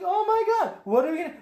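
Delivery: high-pitched flustered fretting; exaggerated squealed worry; mock panic. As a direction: imitate Jedi freaking out. Voicing panicking Jedi.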